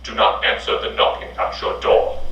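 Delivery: eerie whisper. Acted. Creepy warning voice.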